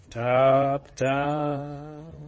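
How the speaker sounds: loud, drawn-out voiced knocks; knocking "tap, tap". A narrator's reading. Wolf knocking at grandmother's door, spoken knocks.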